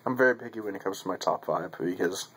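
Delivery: speaking with clenched pipe; talking around a pipe. Real, not acted. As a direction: pipe stem between teeth. Seen 1: Pipe stem clenched at mouth corner throughout, absent in R frames.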